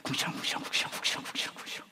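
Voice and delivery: muttering complaints under breath, fast; mock grumbling. Pastor mimicking his own grumbling while finding a room, muttered. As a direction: grumble away to yourself, half-joking. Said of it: "궁시렁궁시렁 하는 거예요".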